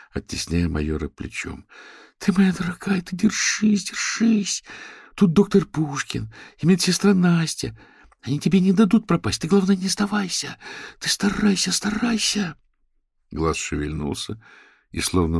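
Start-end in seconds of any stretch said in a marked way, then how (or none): 2.2-12.6 high, loud urgent coaxing; high pleading encouragement. A narrator's reading. Manya urges the tiny creature to hang on. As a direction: beg the creature to hold on.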